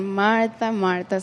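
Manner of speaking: gently, the second Martha almost a hush; loving and gentle. Retold or imitated. Jesus gently calling Martha's name. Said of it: "hear his voice saying".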